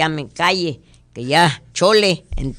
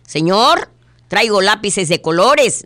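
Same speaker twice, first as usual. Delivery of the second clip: high, eager sales pitch; pushy salesman; 4 semitones higher than usual. Acted. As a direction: push the pencils on him.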